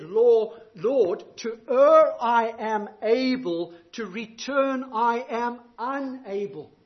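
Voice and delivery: slow, fervent plea that starts loud then settles; quoting Augustine's prayer. Retold or imitated. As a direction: pray it out slowly, pleading with the Lord. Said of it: "he said".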